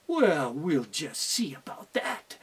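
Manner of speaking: slow whispered threat; scheming whisper. Acted. Teacher plotting against the fox, whispered. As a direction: whisper it like a plan is forming.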